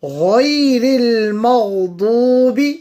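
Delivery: غير المغضوب with the غ from the top of the throat; غير المغضوب, ghain high in the throat, dad full. Shown as a demonstration. Teacher showing the ghain and full dad. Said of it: "will be read from the top of the throat".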